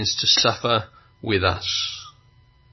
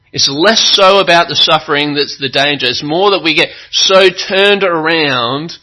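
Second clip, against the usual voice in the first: higher, louder preacher's delivery; emphatic preaching; 6 semitones higher, 7 dB louder than usual. Acted. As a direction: drive the warning home from the pulpit. Preaches with full force.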